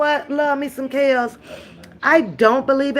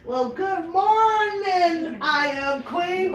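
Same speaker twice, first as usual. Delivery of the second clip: slow, higher, drawn-out groggy good morning; sleepy greeting; 5 semitones higher, 5 dB quieter, slower than usual. Retold or imitated. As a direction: yawn it out like she just woke up. Mocking the sleepy viewer's greeting.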